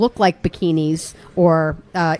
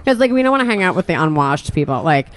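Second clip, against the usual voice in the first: influencer parody. Pretend. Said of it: "continuing influencer parody".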